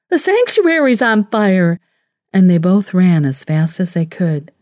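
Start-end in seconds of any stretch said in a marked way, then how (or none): 0.1-1.8 a sudden shocked yell; narrated scream. A narrator's reading. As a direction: cry it out, higher, as she starts to run. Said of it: "Catherine heard herself scream".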